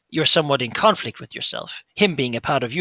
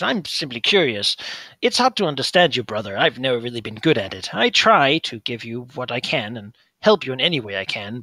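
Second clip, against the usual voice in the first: put-on calm older brother; 4 dB louder than usual. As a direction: gently point out his madness. Brother questions Gesh.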